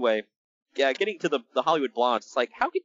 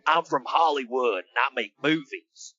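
mock Southern accent. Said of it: "a guy with a thick Southern accent is saying".

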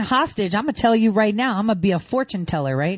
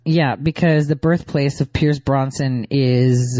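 mocking repeat; 7 semitones lower, slower than usual. Mockingly repeats the reporter's line.

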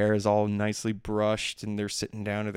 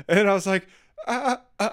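laughing; 10 semitones higher, 4 dB louder than usual. Real, not acted. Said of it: "I had to compose myself".

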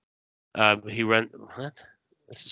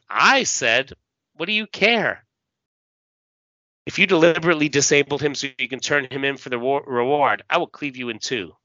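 threatening growl; 4 semitones higher, faster than usual. Acted. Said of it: "the guy says".

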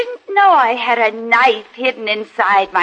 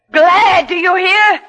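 fierce outburst; 5 semitones higher, 3 dB louder than usual. Acted. Amy's outburst to her sister.

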